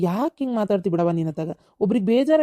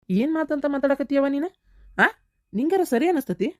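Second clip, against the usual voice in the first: higher, pained scolding; reproachful rebuke; 6 semitones higher than usual. Acted. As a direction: scold your own mother in disbelief. Son rebuking his mother.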